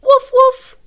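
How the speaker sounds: high, loud yappy puppy woofs; puppy bark. Acted. Teacher reading Biscuit, barking as the puppy. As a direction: bark like a little puppy for the kids. Dog barks in picture book.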